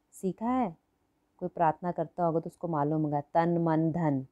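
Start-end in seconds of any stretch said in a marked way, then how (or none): 3.2-4.2 recited slowly. Shown as a demonstration. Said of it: "ऐसे बोलते हैं ना हम".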